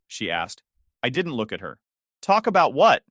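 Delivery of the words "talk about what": angry. A narrator's reading. Bitter quarrel with partner.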